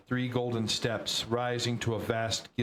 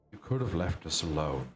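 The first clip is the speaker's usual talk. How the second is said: deflated; 5 semitones lower than usual. Acted. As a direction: let the fight drain out of him. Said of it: "The elderly man sagged, deflated".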